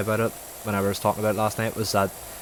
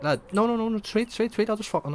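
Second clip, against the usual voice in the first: squeaky-high run of repeated words; hammed-up high-pitched protest; mock frantic pleading; 14 semitones higher than usual. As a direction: beg them to stop in a put-on high voice. Acted panicked pleading in retold scene.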